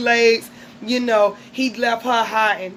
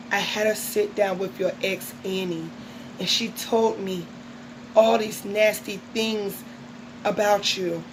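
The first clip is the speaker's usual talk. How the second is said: mock soap heroine, softer with pauses; soap opera melodrama; 5 dB quieter than usual. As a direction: confront him in hushed, hammed-up soap style. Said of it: "All My Children and the Spanish".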